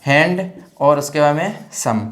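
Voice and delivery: हैंड, then सम as a separate part; two-part split. Shown as a demonstration. Teacher breaking the word for students, हैंड and सम apart. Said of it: "थोड़ा सा इसमें stop आता है बीच में".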